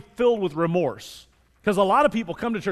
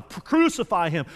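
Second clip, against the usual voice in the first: drawn-out, moderately raised mock roar; retold mob roar; slower than usual. Mob answers Pilate's challenge, slow half-shouted roar. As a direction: imitate a mob calling out, stretching it slowly. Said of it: "the mob roared even louder".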